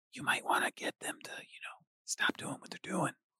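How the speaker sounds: hushed, exaggerated stage whisper meant to carry. Voicing Guy, who whispers aside to Antimony: stage whisper. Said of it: "I should stage whisper".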